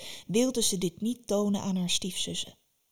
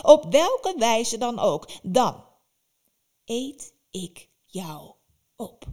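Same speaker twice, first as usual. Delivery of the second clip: menacing witch; 2 semitones higher, 4 dB louder than usual. Acted. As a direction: drag out the threat of eating her. Baba Yaga threatens Vasilisa.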